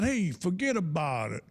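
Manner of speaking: lightly hammed-up New York catchphrase; New York accent. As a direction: shrug it off like a New Yorker. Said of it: "try to do an accent".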